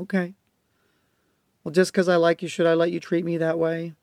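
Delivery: put-on gently name the child's feelings; modeled calm talk. Shown as a demonstration. Dad modeling calm talk to a backtalking child. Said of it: "I model it for her".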